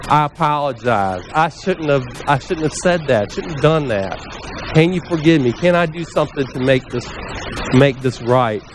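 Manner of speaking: understated, contrite apology; acted apology. Owning up to someone you upset, sincerely apologetic. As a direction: own up gently, voice settling down. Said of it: "then let's own it".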